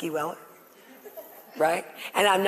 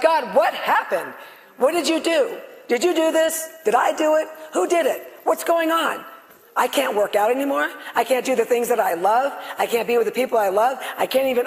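retold anger at God; 3 semitones higher than usual. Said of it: "I was mad".

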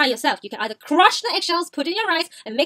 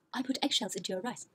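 hushed, much softer confession; said very softly; 4 semitones lower, 11 dB quieter than usual. Retold or imitated. Mom confesses to dad about the eggshells, very softly. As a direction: quietly admit it, bracing for a reaction. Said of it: "said very softly".

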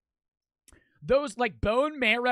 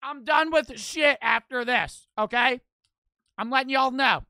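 loud; 4 semitones higher, 7 dB louder than usual. Real, not acted. Streamer declares at punching bag.

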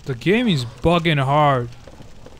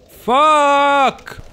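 much higher, louder angry yell; furious shout; 9 semitones higher, 6 dB louder than usual. Real, not acted. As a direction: explode in real rage. Raging after a failure.

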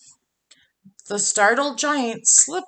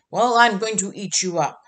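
fast, louder troll roar; 4 dB louder, faster than usual. Acted. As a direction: bark it out quick like a hungry troll. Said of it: "roared the troll".

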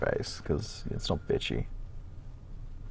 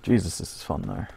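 deadpan. Real, not acted. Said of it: "I say in a relatively deadpan voice".

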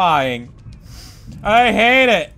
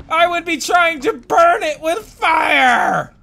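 higher, building rant ending in shouts; incredulous rant; 6 semitones higher than usual. Real, not acted. Gamer ranting about helpers who should stop him. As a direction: rant in growing disbelief.

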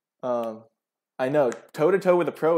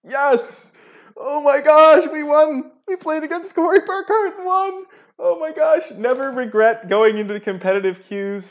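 screaming high with joy; shrieking jackpot winner; 13 semitones higher, 8 dB louder than usual. Real, not acted. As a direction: ecstatic victory shrieks. Just won against a pro.

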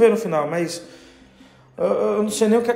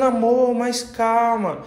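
lightly voiced wife, higher, feigning innocent calm; a hint of the wife playing it cool while guilty; wife faking calm to cover her theft, lightly voiced higher; brazen wife; 4 semitones higher than usual. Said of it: "na maior cara de pau".

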